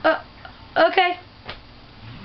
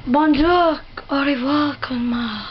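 playful put-on French; French accent. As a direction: toss out phrases in a French accent. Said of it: "a French accent too".

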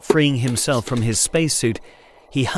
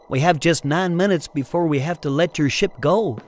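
quick urgent; 5 semitones higher than usual. A narrator's reading. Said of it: "said Anne quickly".

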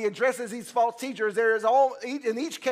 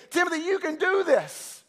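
higher, earnest voice of Paul gripping Timothy; Paul urging Timothy; 4 semitones higher, 3 dB louder than usual. Acted. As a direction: plead with him like an old mentor. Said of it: "and say".

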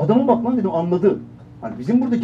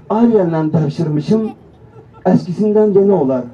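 put-on Azerbaijani accent; 6 dB louder than usual. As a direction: sell it with a thick Azerbaijani accent. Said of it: "Bunu Azerbaycan T V'de izledim". (abartılı Azerbaycan şivesi)

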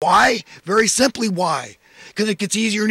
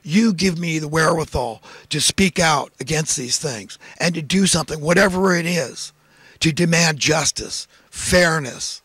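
modeling a prayer; 3 semitones lower than usual. Pretend. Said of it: "get on your knees and say".

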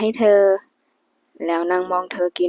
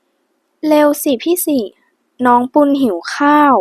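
short and blunt, pitched up and louder; curt; 6 semitones higher, 4 dB louder, slower than usual. A narrator's reading. Wife, blushing, curtly hurries her husband to cook. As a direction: snap "น้องปุณหิวข้าว" curtly, embarrassed. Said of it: "เธอพูดเสียงห้วน".

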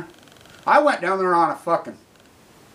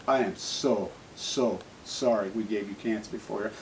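quiet apology; 5 semitones lower than usual. Real, not acted. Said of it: "to the future generations".

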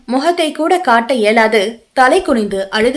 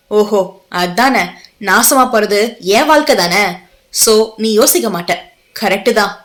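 bitter resigned irony; 2 semitones lower than usual. Acted. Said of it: "விரக்தியாக சிரித்தான்".

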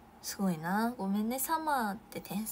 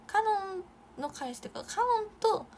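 flustered; 10 semitones higher, 6 dB louder than usual. Real, not acted. Reacts to a fan comment.

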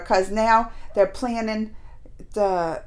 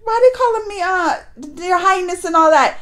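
confused Beam; 6 semitones higher than usual. Retold or imitated. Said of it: "He was like".

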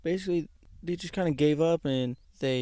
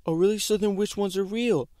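higher, louder sarcastic challenge; mock sarcastic mom; 6 semitones higher, 5 dB louder than usual. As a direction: catch him in the lie, mockingly. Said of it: "And she's like".

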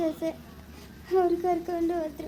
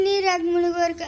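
tearful, voice breaking; crying. Acted. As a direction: hold back a sob on the words. Child echoes parent's grief, crying.

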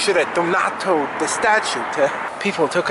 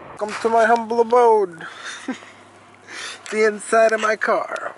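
grand host welcome; 8 semitones higher than usual. Pretend. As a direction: announce it like a butler. Showing off his car as home.

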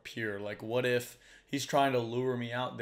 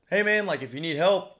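calling out; 6 semitones higher, 8 dB louder than usual. Retold or imitated. Calling out across water.

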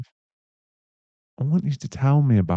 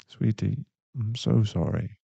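softer, gentle apology after the outburst; tender sympathy; 6 dB quieter than usual. Acted. Boyfriend to hurt girlfriend, soft tender sympathy. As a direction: drop down and comfort her.

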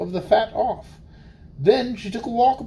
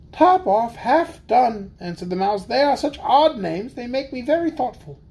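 mouse voice; 4 semitones higher than usual. Acted. Mouse musing, high.

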